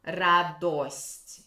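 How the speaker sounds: радость with a full round O, not an A; stressed round O. Shown as a demonstration. Teacher correcting her own Moscow-style pronunciation of радость. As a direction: say the O of радость clearly. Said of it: "we have to say O a little bit more".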